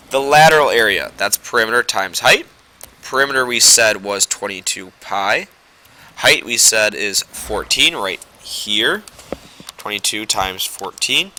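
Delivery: nose pinched shut by a clothespin. Real, not acted. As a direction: talk with a clothespin on your nose. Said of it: "the clothespin on my nose".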